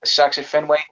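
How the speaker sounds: put-on Boston sports-fan accent. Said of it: "no, the Boston accent".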